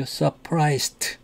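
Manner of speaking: Surprised with a clear t at the end; final t pronounced. Shown as a demonstration. Teacher demonstrates Surprised with its final t sounded. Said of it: "T로 발음하죠".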